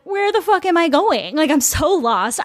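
mock-frantic inner complaint; exasperated. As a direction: act out being hopelessly lost. Retelling her lost, exasperated thoughts.

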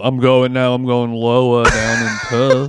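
shouted mock Australian accent. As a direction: belt it out in a low Aussie twang. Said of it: "as I will go lower".

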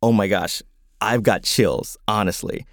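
plain reading voice

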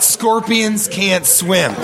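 slow, falling "Scorpions can't swim." as if it's the lesson; mock realization. Co-host pretending this is the parable's moral, slow knowing fall. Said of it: "I was just like, "I get it".

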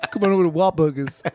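lifted, put-on buddy voice; a singer. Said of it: "This is him".

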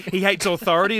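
says it through a laugh; chuckling while talking. Real, not acted. Laughing over the joke.

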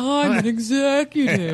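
slow, laughing imitation of a friend; mocking imitation. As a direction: drag it out to tease him. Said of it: "I never said that in that voice".

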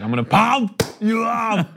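high, slow put-on voice; exaggerated and punched; hammed-up character voice. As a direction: draw out a comic accented boast. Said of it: "And he was like".

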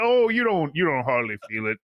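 put-on a light Southern old-timer voice, lifted at the start; grandpa's southern drawl. Grandson imitating his grandpa with a mild southern accent. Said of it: "whenever I do my southern voice".

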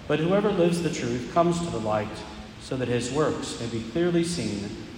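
solemn proclamation, measured pace; Gospel reading. Acted. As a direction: proclaim it from the ambo.

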